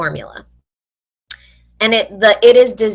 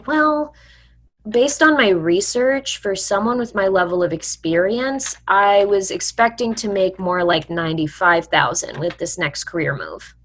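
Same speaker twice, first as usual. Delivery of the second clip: confident counter. Shown as a demonstration. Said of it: "the way you're gonna respond is".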